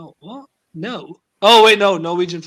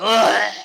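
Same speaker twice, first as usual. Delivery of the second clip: louder throaty imitated noise; mock guttural groan; 6 dB louder than usual. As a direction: make an exaggerated Scouse throat noise. Imitating nephew's reply in accent.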